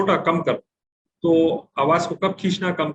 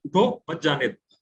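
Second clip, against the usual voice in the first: slow "उठो", stop, then "मत जाने दो"; pause after first word. Shown as a demonstration. Teacher showing where to stop in Urdu, pause after "उठो". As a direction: break the phrase right after "उठो". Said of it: "अगर वहां "उठो" पे आप रुके".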